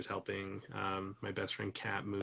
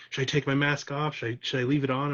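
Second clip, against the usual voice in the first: a touch of an eager lady's voice, a little louder; excited lady; 5 semitones higher, 7 dB louder than usual. Retold or imitated. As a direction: lightly play the excited stranger, asking in a rush. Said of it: "she got all ex-, excited about it".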